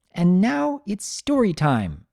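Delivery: put-on high, curious child voice; eager little girl; little filly Sunny. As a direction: play the small filly asking her mother.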